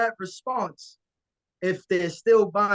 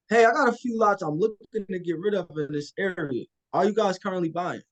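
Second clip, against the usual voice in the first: confident opener. Shown as a demonstration. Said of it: "I say it just like that on, on, for a reason".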